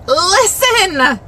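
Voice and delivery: high, loud call for attention; exclaimed command. Acted. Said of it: "Exclamation mark".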